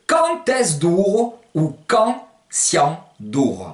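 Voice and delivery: QUAND EST-CE DURO slow, as "quant ès d'ouro"; slow, spaced quand siamo duro, duro as "douro"; Provençal pronunciation. Shown as a demonstration. Teacher asking the time, slow Provençal pronunciation. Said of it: "Comment dit-on en provençal".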